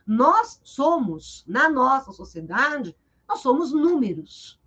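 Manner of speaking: each word slowed and weighed, nós stressed; slow emphatic quote. Retold or imitated. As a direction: lay the quote down slowly. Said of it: "O Saramago diz isso". (citação lenta e enfática)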